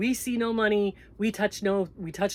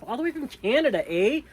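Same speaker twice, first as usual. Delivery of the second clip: Canadian eh; 4 semitones higher, 4 dB louder, faster than usual. Pretend. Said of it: "I, I can say that. I'm Canadian".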